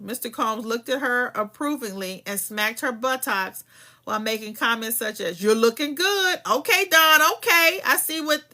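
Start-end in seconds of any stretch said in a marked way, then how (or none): 5.4-8.4 flirtatious tone. Retold or imitated. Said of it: "in a flirtatious tone".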